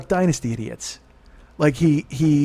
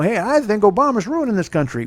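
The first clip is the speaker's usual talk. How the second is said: higher, put-on dumb-guy voice; mocking a redneck pundit; 6 semitones higher than usual. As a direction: parody a Duck Dynasty guy spouting opinions. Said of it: "and they're like".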